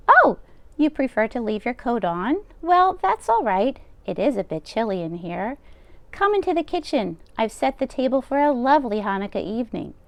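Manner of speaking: bustle like a kind deaf baba; old grandmother voice. Acted. Old baba taking the rabbi's coat, high and fussing. Baba voicing lines to Bear.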